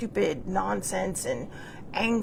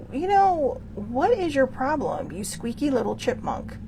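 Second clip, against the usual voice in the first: dream retort; 4 semitones higher than usual. Retold or imitated. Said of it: "And I'm just like".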